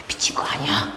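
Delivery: hushed unvoiced whisper; whispering prisoner. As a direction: mutter it like a wary inmate. Prisoners muttering. (수군거리는 죄수의 속삭임)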